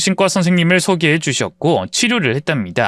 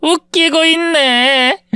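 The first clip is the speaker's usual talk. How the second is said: high, slow sneering drawl; mean girl mocking the narrator's claim; scornful mockery; 12 semitones higher, much slower than usual. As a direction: stretch it out in disbelief. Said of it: "혜린이가 웃기다면서".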